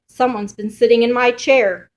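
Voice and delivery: a touch of bear-sized outrage; exclaiming. Acted. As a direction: exclaim it to the family. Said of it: "exclaimed Papa Bear".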